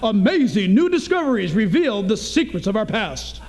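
big booming ad read; radio announcer voice. Pretend. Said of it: "I almost sound like a radio announcer".

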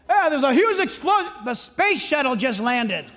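excited caller. Retold or imitated. Preacher acting out a frantic 911 caller, excited. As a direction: blurt it out like big news.

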